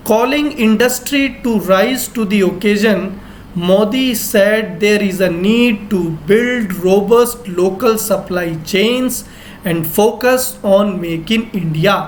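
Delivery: slow, word by word English headline; slow dictation reading. Shown as a demonstration. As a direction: read it out slowly for students to follow. Teacher reads English news slowly. (धीमी गति से खबर पढ़ना)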